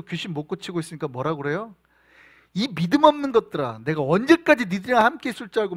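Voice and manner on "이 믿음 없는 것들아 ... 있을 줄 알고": scolding Jesus. Acted. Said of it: "막 뭐라고 한단 말이죠".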